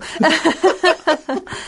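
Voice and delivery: siren imitation. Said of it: "Sounded exactly like the siren I would use".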